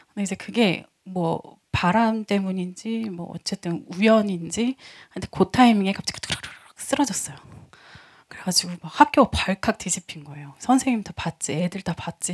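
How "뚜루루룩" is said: rolling clatter imitation; vocal sound effect of falling objects; imitated toppling noise. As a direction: mimic things tumbling down in a row. Imitating masks toppling over.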